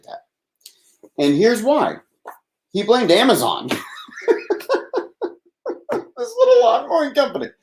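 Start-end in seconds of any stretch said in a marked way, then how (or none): 6.2-7.5 incredulous disbelief. Real, not acted. Incredulous at lawn company.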